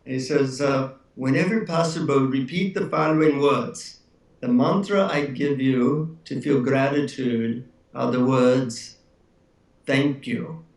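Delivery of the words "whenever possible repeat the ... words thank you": measured Indian guru voice; Indian accent. Retold or imitated. Guru giving his secret mantra to an eager visitor, Indian accent. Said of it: "in his Indian accent".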